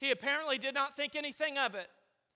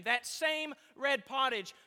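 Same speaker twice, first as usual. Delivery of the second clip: slow reading, leaning on "red"; stress on "red"; slower than usual. Shown as a demonstration. Preacher showing the translators' emphasis, stressing "red". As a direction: set "red" apart with deliberate weight. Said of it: "to emphasize the word red".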